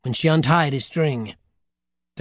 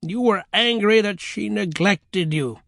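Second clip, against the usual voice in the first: higher, slow, deliberate verdict; matter-of-fact grandmother; 6 semitones higher than usual. Acted. Grandmother concluding for the children, matter-of-fact. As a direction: state it slowly as a settled fact. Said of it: "the grandmother concluded matter-of-factly".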